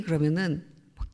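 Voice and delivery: normal talking voice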